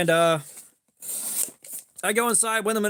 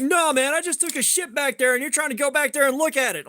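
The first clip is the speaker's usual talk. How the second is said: agitated friend; 6 semitones higher than usual. Retold or imitated. Retelling friend freaking out, higher agitated voice. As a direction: rattle it off in a mock panic.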